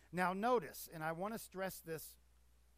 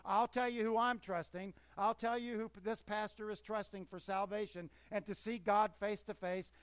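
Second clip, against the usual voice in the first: louder fervent preaching; fervent declaration; 3 semitones higher, 6 dB louder than usual. Real, not acted. Preacher to congregation, fervent loud declaration. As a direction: proclaim it to the back row.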